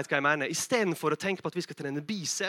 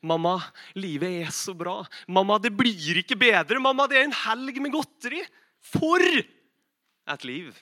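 hammed-up rapture, climbing higher to the end; blissful child; 4 semitones higher, 4 dB louder, slower than usual. Child telling mum about a weekend of sweets, blissfully overexcited. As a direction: gush to mum, stretching out the final exclamation.

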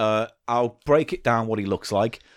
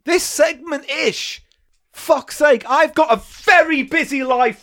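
much higher, louder put-on voice; squeaky character voice; 4 dB louder than usual. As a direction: play a shrill, harried little man. Character voice takes over the host.

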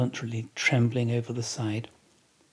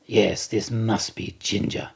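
slow suspicion. Acted. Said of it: "suspiciously asks Stubb".

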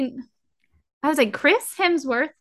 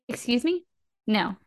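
indignant disbelief; 3 semitones higher than usual. Retold or imitated. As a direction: protest the casting in mock outrage. Acted outraged reaction to casting news.

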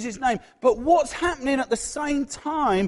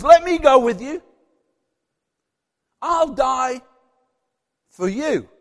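earnest pledge; 3 semitones higher, 7 dB louder, slower than usual. Acted. Peter begging Jesus to let him come, earnest pledge. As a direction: pledge it in separated phrases.

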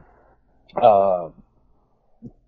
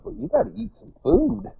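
high-pitched retold admonishment; imitating trainer's admonishment; 13 semitones higher than usual.

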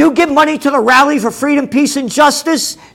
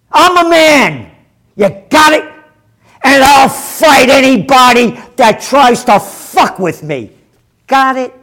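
defiant shout; 2 semitones higher than usual. Real, not acted. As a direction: square up to him, defiant. Defiant rant at viewer.

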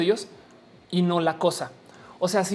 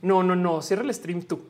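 giggly late night call. Pretend. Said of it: "no quiero colgar".

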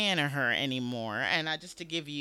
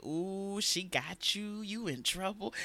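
gleeful taunt; 5 semitones higher, slower than usual. Retold or imitated. Acting out reaction to senator's grilling.

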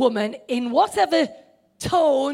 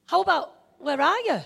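a light, knowing lilt on how about; pointed question; 4 semitones higher than usual. Shown as a demonstration. Preacher shows God's question with a knowing nudge. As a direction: ask it with a nudge. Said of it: "Or it's not just".

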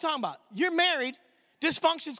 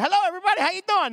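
louder, higher hearty greeting; uncle's greeting; 4 semitones higher, 4 dB louder, much faster than usual. Retold or imitated. Mafia uncle greeting the family, loud and hearty. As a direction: boom it out like the lonely uncle nobody greets. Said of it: "He's like".

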